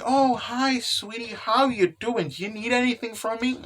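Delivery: high-pitched doting hello; sweet greeting. Acted. Voicing a character greeting sweetheart.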